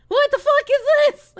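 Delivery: high loud disbelief; real shocked outcry; shocked shout. Real, not acted. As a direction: yell it out in shock. Shocked outburst at chat.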